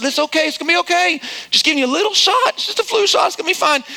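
high, quick soothing voice; reassuring parent. Retold or imitated. Father calming his son before a flu shot, reassuring. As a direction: imitate a parent hurriedly reassuring a child.

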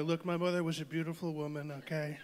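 mock presidential impression; Trump. Son fondly defending his mother's memory, lightly imitated politician. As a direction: insist on it, tagging on a confidential okay. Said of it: "Trump, yeah".

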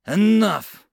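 high, loud, drawn-out shout; yell. Acted. Sergeant stopping lieutenant's tirade, yelled. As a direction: shout to end the argument. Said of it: "Mills yelled".

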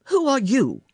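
high, loud startled question; startled challenge. A narrator's reading. Sick boy to a stranger at his door, startled and loud. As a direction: demand to know who's there, voice jumping up.

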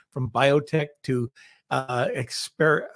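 numb mouth, fumbling words; numb from the dentist. Real, not acted. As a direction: speak through a numbed mouth. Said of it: "so my mouth is numb".

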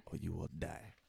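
warning in a put-on African accent; imitated African accent. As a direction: repeat the threat in a mock African accent. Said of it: "do it in my best African accent".

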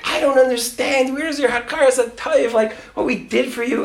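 high-pitched imitation of an upset father; unhappy father. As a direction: mimic a dad protesting ingratitude. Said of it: "he's not happy".

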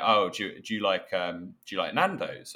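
put-on lightly done Essex accent; a hint of an Essex geezer asking. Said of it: "in the best Essex accent".

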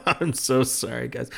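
bursting into a real laugh; laughing apology. Real, not acted. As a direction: apologise through your laughter. Laughing apology for gloomy episode.

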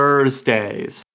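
Thursdays with a hard, pronounced R; hard American R. Retold or imitated. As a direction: hit the R in Thursdays. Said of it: "hit the hard R".

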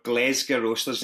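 "Glesga" said the Glaswegian way, GLEZ-guh; local Glaswegian pronunciation. Shown as a demonstration. Founder giving host the correct name, Glaswegian "Glesga". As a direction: say "Glesga" with an e and a final uh. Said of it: "give us the correct pronunciation".

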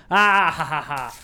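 high, loud forced laughing; fake laughter. Mocking fake movie laughter.

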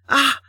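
short high yelp of pain; cry of pain. A narrator's reading. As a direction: cry out sharply as if hurt. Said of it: "ignoring her cry of pain".

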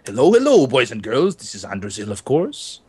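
impression of Andrew Zill. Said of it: "best impression of anyone on the Minecraft server".

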